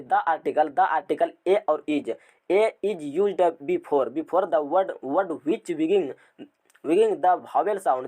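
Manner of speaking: reads the rule word by word, very slow; slow dictation. Shown as a demonstration. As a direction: dictate each word slowly for notes. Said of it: "teacher dictating rule slowly". (धीरे-धीरे लिखवाते हुए)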